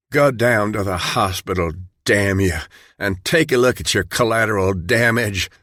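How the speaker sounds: understated furious outburst; angry cry. Acted. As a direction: minister confronting Dale over the dead kids, angrily. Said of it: "Black cried".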